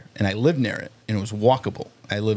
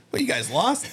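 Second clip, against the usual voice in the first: put-on drunk question; 11 semitones higher than usual. Drunk asking cop.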